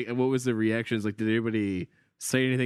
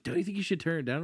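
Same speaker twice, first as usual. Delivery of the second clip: lightly voiced worried parent, quick and higher; a hint of a concerned partner's higher voice; Lauren; 6 semitones higher, 4 dB quieter, faster than usual. Partner asking about music with kids asleep, lightly imitated concern. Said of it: "And Lauren's like".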